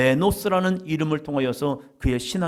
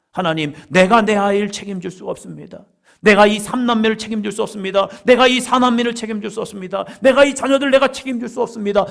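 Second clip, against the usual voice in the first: pleading prayer; 6 semitones higher, 5 dB louder than usual. Acted. Voicing a parent's desperate prayer.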